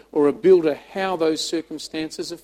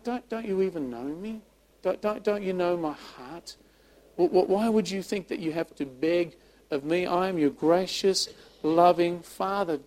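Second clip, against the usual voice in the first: tender. Acted. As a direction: speak tenderly, as if bending down to a child. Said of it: "bending down tenderly".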